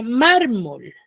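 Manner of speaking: "mármol" with the weight on MÁR; stress on first syllable. Shown as a demonstration. Teacher gives pupils a new word, "mármol" stressed on MÁR. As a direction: lean on MÁR and let "mol" fall. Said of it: "Mar, ¿cierto? Es en la penúltima".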